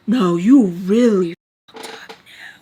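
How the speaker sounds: slow whisper; whispered warning. Retold or imitated. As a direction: whisper it slowly like a secret threat. Sam hissing a warning.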